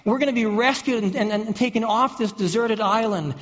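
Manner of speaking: thrilled castaway seeing the rescue plane; excited cheering. Pretend. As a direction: cheer like you've just been spotted by the Coast Guard. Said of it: "you jump up and down".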